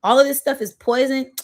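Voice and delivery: high, loud shocked disbelief. Retold or imitated. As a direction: gasp it out like you just found out. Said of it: "I was like".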